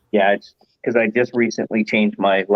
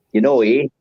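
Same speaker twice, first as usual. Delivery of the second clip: Canadian-sounding Wisconsin "you know, eh"; mock Wisconsin accent; 2 semitones higher than usual. Shown as a demonstration. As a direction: lightly put on a Wisconsin accent. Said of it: "very distinctive accent".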